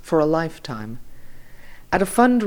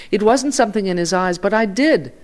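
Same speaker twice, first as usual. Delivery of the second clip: emphatic amazement; 6 semitones higher, 4 dB louder than usual. A narrator's reading. Journalist insists he recognized his friend.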